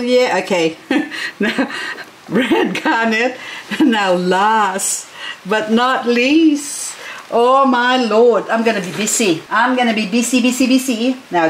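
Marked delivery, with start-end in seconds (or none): none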